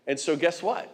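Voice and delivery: ordinary talk, nothing marked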